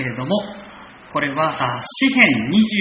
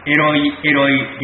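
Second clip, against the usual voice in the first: mildly raised, crying out the ancient words; voiced cry; 5 dB louder than usual. Preacher lending voice to Jesus's cry, raised. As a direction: echo the cry from the cross, louder. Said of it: "イエス・キリストの叫び声ですね".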